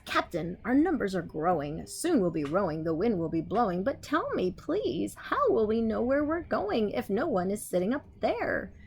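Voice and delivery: a hint of a small cartoon tomato; Junior's voice. Junior asks the captain, lightly voiced. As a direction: lightly voice the little one. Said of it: "Junior says".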